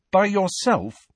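high, incredulous question; amazed and impressed. A narrator's reading. Harry marvels at Hagrid's lone rescue, amazed. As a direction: marvel at the feat. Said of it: "amazed and impressed".

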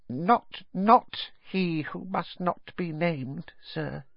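high, squeaky devoted elf; a high elf voice pleading earnestly; house-elf Dobby. Acted.

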